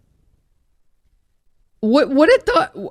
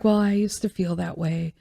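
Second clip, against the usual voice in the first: mocking others; 4 semitones lower, 7 dB quieter than usual. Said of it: "Everyone's like".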